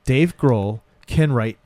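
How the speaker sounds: slow, drawn-out mock denial; imitating delivery guy. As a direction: play the starstruck delivery guy deadpan. Will Forte character denies being the rock star.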